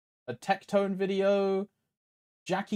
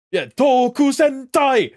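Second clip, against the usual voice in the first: higher, louder burst of recognition; excited shout; 7 semitones higher, 9 dB louder than usual. Real, not acted. Streamer shouting out the Sentai reference in excitement. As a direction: yell it like you finally got the joke.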